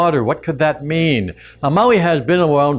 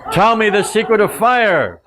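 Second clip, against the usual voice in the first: threatening demand; 6 semitones higher than usual. Acted. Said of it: "takes the bird by the neck".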